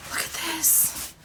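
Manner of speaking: high, slow, breathy wonder; awed delight. Real, not acted. Vlogger showing off a gorgeous sample, awed delight. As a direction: draw it out high in amazement.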